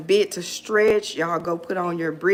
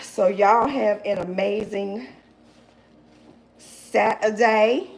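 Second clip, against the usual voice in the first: put-on a playful try at the overseas accent, slow on Saturday; slower than usual. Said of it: "Your accent overseas is good, Faye. Do it again".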